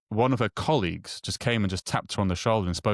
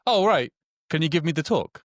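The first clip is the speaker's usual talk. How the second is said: much higher, incredulous mock security officer; mock baffled official; 8 semitones higher, 4 dB louder than usual. Security officer quizzing him about his talk, much higher mock disbelief. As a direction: play the clueless airport guard, disbelieving. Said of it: "She goes".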